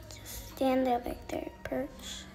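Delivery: soft whispered advice. Real, not acted. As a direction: murmur so the birds stay calm.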